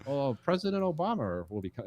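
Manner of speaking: hammed-up British with R on Obama; British accent. Imitating Brits on President Obama, mock British accent. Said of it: "right at the end of the O".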